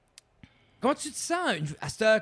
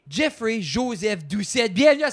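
announcer intro; 4 semitones higher, 5 dB louder than usual. Acted. Host introducing the guest.

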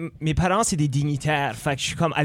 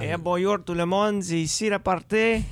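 a light put-on Acadian accent; 4 semitones higher than usual. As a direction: greet the crowd in a loose Acadian accent. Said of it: "c'est pas très acadiché, là, cet accent-là".

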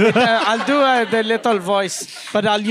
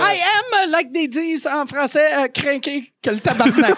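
put-on little child voice; 4 semitones higher than usual. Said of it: "I'll do the little voice".

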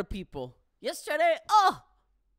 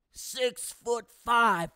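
loud; 5 semitones higher, 7 dB louder, much slower than usual. Real, not acted. Building up tough guy.

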